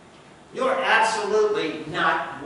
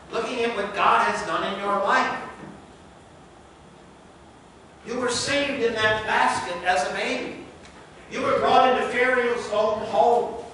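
incredulous rebuke; 4 semitones higher than usual. Acted. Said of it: "we look at Moses and we say".

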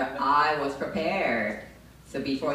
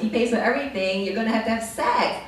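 much higher, loud, gushing and excited; inner Kardashian; 7 semitones higher, 10 dB louder than usual. Retold or imitated. Her inner Kardashian gushes about Dubai, loud and high. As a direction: squeal it like a spoiled socialite. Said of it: "my inner Kardashian was like".

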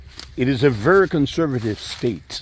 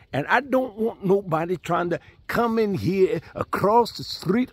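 higher-pitched mock hillbilly accent; imitated hillbilly talk; 4 semitones higher than usual. Landowner telling his buyer he'll sell only to them, imitated hillbilly accent. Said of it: "that Indian talk like that".

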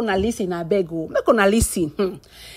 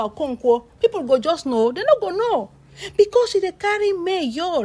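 acting out an indignant complaint; imitated heavy complaining; 3 semitones higher than usual. Husband complaining to a veteran actor about his wife, indignant retold grumble. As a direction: complain as the wronged husband, pitch climbing. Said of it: "He dey lay heavy complain".

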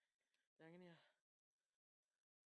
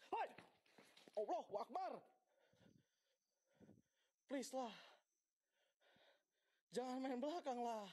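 scared horror game streamer; 7 semitones higher, 11 dB louder than usual. Real, not acted. Ghost throwing things, startled streamer.

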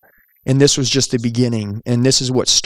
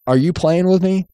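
higher-pitched incredulous question; mock-incredulous customer, pitched up; retold disbelief; 5 semitones higher than usual. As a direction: imitate a customer suspecting he's being toyed with. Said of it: "the guy looked at me like".

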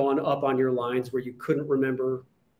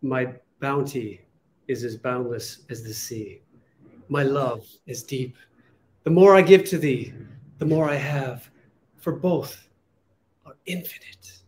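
heartfelt Juliet. Shown as a demonstration. Host reciting Juliet's lines to a guest, tender and felt. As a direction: deliver the lines as if living them. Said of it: "I felt that... you were living".

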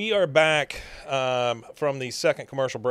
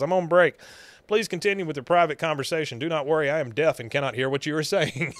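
lightly acted stilted announcement; fake deaf electrician; 4 semitones higher, 3 dB louder, faster than usual. Host as disguised Dale claiming deafness, lightly acted stilted voice. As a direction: recite the cover story formally, tongue in cheek.

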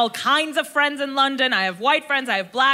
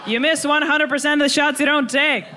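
higher, faster, eager self-persuasion; hopeful inner voice; 5 semitones higher than usual. Retold or imitated. Her inner voice convinces her to try, eagerly. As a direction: talk yourself into it, brightening. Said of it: "the second voice went".

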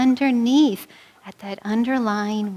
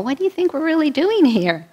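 higher, louder pastor voice, gently challenging; 7 semitones higher, 4 dB louder than usual. Retold or imitated. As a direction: challenge her like a wise pastor. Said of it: "And he's like".

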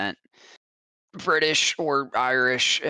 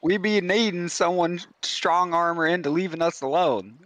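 lightly put-on Southern fisherman accent. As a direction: offer the reward like a humble Southern fisherman. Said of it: "I was so focused on the accent".

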